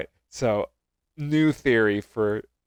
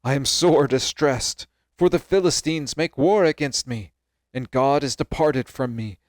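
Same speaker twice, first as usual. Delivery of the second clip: louder, earnest scripture plea; distressed Saul, pleading; 2 semitones higher, 5 dB louder than usual. Acted. Saul begs the risen Samuel for guidance, earnest plea. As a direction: plead your case in measured Bible reading.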